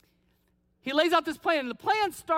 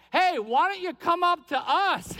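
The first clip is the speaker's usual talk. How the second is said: jeering shout from the clifftop, a touch higher; mocking call; 4 semitones higher than usual. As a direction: call up to them with a sneer. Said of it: "You can almost hear them joking".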